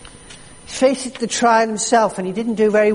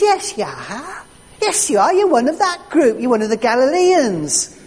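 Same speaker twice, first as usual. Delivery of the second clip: high, louder insistent bystander; loud accusation; 6 semitones higher, 4 dB louder than usual. Retold or imitated. Bystander by the fire accusing Peter, high and louder. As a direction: hammer it home, you're one of them.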